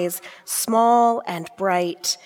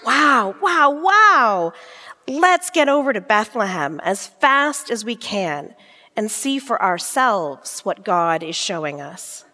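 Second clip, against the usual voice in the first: amazed shouting. Acted. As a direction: shout it out in wonder. Shepherds amazed by angels.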